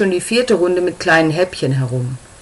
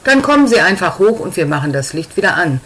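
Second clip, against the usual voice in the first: wobbly voice. Acted. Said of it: "sagt Ebru mit wackeliger Stimme".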